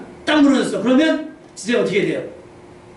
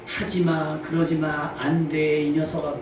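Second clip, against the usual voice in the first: muted nagging; 3 semitones lower, 5 dB quieter, much slower than usual. Retold or imitated. Adult nagging a child.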